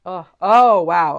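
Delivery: loud, breathy oh, oh, wow; stunned gasp. Real, not acted. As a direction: caught off guard by the message. Reacts to a strong message.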